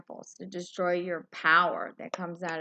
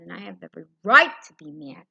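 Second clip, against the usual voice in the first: righteous anger; 3 semitones higher, 5 dB louder than usual. Real, not acted. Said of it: "I'm righteously angry".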